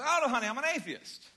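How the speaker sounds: high, loud, sunny "honey", grinning through it; cheery smiling reply. Retold or imitated. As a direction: say it with a big smile, sweetly. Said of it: "say atheist with a smile".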